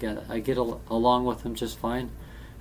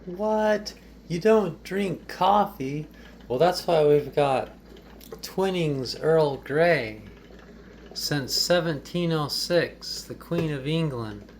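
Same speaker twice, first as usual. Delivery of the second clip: higher, slow, showy voice of a host serving tea; higher-pitched, unhurried tea-party host; put-on tea host voice; 3 semitones higher, slower than usual. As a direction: play a fussy host presenting English tea, slowly and higher. Tea-making demo in put-on voice.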